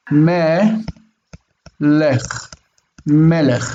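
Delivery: melech taken apart as me, long pause, lech; syllables shown apart. Shown as a demonstration. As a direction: sound out melech piece by piece, me then lech. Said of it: "There's that break".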